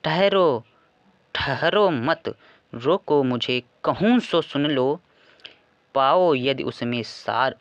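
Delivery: slow, emphatic poem recitation; verse recitation. Acted. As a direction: recite it line by line, drawing out the line ends.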